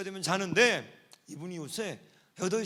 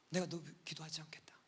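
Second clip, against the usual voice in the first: soft, almost whispered retreat; hushed; 4 semitones lower, 12 dB quieter than usual. Retold or imitated. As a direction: back off gently in a hush. Pastor backing off from hostile girl.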